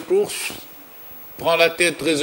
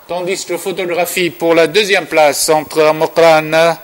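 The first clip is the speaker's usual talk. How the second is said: race caller; 5 dB louder than usual. Real, not acted. Photo finish call at the line.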